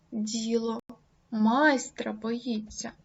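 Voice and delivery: пауза після «Діло», решта повільно; виділи «Діло» паузою; stress on Діло. Shown as a demonstration. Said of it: "вирізняючи логічним наголосом". (логічний наголос на «Діло»)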